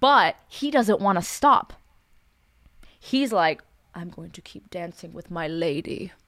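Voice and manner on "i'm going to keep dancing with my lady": put-on very soft, hushed, courtly old-fashioned gentleman voice. Retelling what he said as kids threw things during the dance, older gentleman voice. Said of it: "He would speak like an older gentleman like that".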